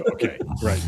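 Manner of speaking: laughing in disbelief. Real, not acted. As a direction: chuckle through the word. Laughs at Latin claim.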